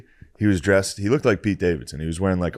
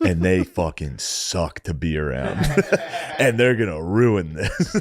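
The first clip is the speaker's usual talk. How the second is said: put-on slow, laughing through the drunk boast; giggling as he mocks his own friends; slower than usual. Retelling his drunk boast to Nate, laughing through it. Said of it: "I was hammered".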